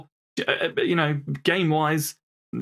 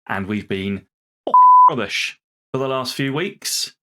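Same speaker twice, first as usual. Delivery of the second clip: frustrated outburst; 6 dB louder than usual. Real, not acted. Frustrated with team's poor form.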